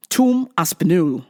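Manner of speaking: put-on English pronunciation with a rounded "Tom"; English accent. Podcaster showing off the name Tom Aspinall, English accent. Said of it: "say it with an English accent".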